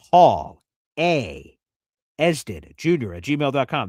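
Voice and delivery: each part of "Paul A Esden Junior at gmail dot com" spaced out slowly; slow and clear. Shown as a demonstration. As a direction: spell it out carefully for listeners. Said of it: "Let me say it slow".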